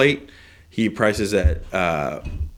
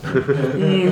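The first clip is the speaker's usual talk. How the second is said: Maximilian Pegasus; 8 semitones higher, much slower than usual. Acted. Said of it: "dipping into be like Maximilian Pegasus".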